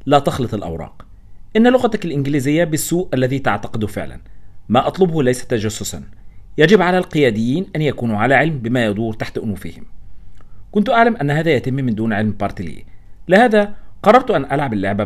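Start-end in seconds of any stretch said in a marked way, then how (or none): none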